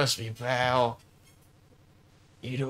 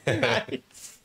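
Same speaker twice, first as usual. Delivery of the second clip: squeaky; 13 semitones higher than usual. Acted. High squeaky praise.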